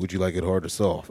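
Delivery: put-on deep, booming voice. Retelling what a masseur asked: James Earl Jones voice. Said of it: "straight James Earl Jones voice into my ear".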